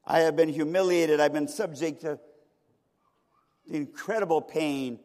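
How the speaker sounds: forceful acted protest, opening loud; mother crying out. Mother testifies to her humiliation and pain, crying out. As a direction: declare the suffering with mounting weight. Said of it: "she cried out".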